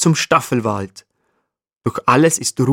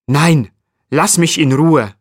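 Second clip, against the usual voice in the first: mildly grumpy, raised-voice refusal; a touch louder and higher, surly; 4 semitones higher, 4 dB louder than usual. A narrator's reading. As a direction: brush off a pest crossly. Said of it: "antwortet der Steinbock mürrisch".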